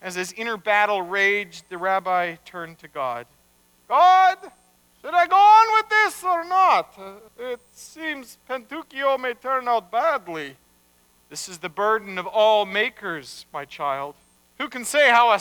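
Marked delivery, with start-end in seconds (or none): 3.9-10.5 high, loud calling to God; anguished appeal. Acted. Rabbi doubting whether to go on, appealing loudly. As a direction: cry out the question, pitched up.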